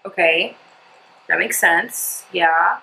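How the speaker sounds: halting, hesitant processing; not instantly happy. Retold or imitated. Imitating her mom processing the news, not yet happy. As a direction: imitate mom slowly taking it in, with pauses. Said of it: "instantly happy. She was like".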